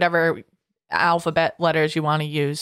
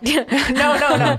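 laughing; 9 semitones higher, 4 dB louder, much slower than usual. Real, not acted. Laughing denial about being married.

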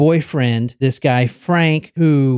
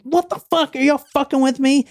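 high, frantic panic; imitating a struggling, panicked victim; panicked quote; 10 semitones higher, faster than usual. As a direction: squeal it out in sheer panic. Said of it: "He's like".

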